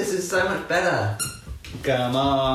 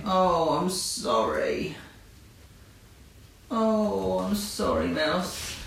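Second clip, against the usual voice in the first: soft apology; 4 semitones higher, 4 dB quieter, slower than usual. Real, not acted. Apologising to frightened puppy.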